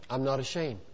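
very soft, low voice; low, understated voice of God; quiet divine declaration. Acted. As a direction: say it hushed and deep, as God. Voicing God's quiet declaration.

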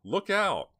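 high, loud screamed warning; urgent, full-force yell of alarm. A narrator's reading. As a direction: scream it to save someone from a blow. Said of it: "screamed Dina".

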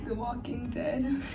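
slow, softened, seductive delivery; playful seductive hush; seductive murmur. Pretend. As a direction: draw the name out softly and seductively. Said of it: "Whisper the names of your favorite T V shows in the most seductive".

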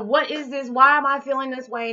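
high, loud, bewildered questions, laughing it off; retold bewilderment. To her viewers, retelling her shock at the dreams, loud and high. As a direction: throw the questions up in shocked disbelief. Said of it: "I'm just like".

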